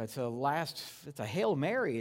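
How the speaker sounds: normal talking voice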